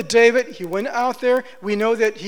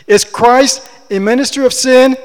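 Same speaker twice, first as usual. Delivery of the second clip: louder, impassioned preacher's question; Paul's passionate challenge; 3 semitones higher, 8 dB louder than usual. Retold or imitated. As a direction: thunder it out with conviction. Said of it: "he says it with passion".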